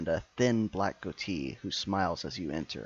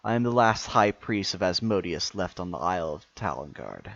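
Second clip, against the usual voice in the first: louder, grand villain speech; booming echoing villain monologue; 3 dB louder than usual. Acted.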